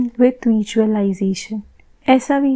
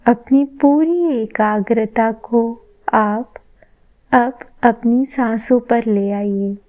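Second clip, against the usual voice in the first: measured meditation voice with long pauses; guided meditation. Shown as a demonstration. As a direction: guide them gently inward, phrase by phrase. Leads a meditation. (ध्यान कराते हुए, ठहर-ठहर कर)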